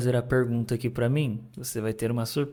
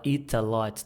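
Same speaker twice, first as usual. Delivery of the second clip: European English. Shown as a demonstration. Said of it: "Já puxa pro inglês mais europeu".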